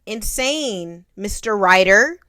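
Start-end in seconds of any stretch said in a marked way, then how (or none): 1.2-2.2 much louder call of "Mister Ryder"; mock call-out. Calling out like in film.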